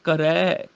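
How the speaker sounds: ਕਰੈ ending in long open ai. Shown as a demonstration. Teacher modelling the vowel mark, ਕਰੈ with ai. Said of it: "ਰਾਰੇ ਨੂੰ ਦੁਲਾਵਾਂ ਹੈਗੀਆਂ ਨੇ".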